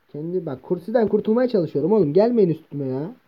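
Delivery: high, loud panicked pleading; frantic. Real, not acted. Player trapped by mobs, frantic and high. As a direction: scramble to escape.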